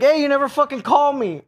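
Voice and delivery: playfully aggrieved heckle; mock indignant complaint. Driver to a woman in traffic, mock indignant.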